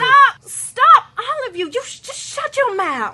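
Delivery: loud, high yell to silence everyone; furious shout. Acted. Leader screaming at bickering captors to stop, furious. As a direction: bellow them all into silence. Leader yells to end squabble.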